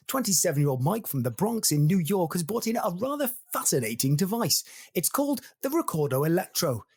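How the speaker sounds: mock-formal host with swooping intonation; TV presenter introduction. Host opening Science Club, formal presenter delivery. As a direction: welcome viewers like a studio presenter.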